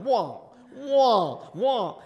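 swooping high "wah" on each pass; repeated arching movie sound effect; searchlight sweep noise. Retold or imitated. Storyteller showing searchlights sweeping the river, swooping wahs. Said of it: "this kind of searchlight's going".

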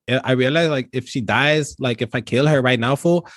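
put-on laid-back Chicano street accent, every line capped with fool; Chicano cholo accent. Cholo buying cranberries from the store clerk, Chicano accent. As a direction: play the Chicano cholo shopping for his tito. Cholo confesses the insurance plot.

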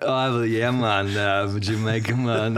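put-on light stab at a Jamaican accent; tentative imitation of a Jamaican caller; attempted Jamaican accent. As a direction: have a half-hearted go at Jamaican. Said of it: "I'm not gonna do his accent".

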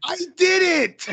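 high, slow, loud proud voice; high mock killer. Imitating the killer owning up, high and drawn out. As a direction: announce it with glee. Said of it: "He's like".

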